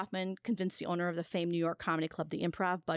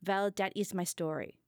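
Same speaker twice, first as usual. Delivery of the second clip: lightly voiced shy foreigner in a Pakistani-style accent; a hint of a timid Pakistani accent. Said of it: "he'd say shyly".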